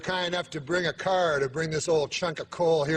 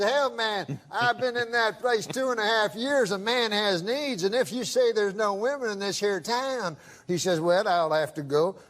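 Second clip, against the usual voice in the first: drawling prospector voice; 3 semitones higher than usual. Retold or imitated. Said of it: "I can tell by the accent".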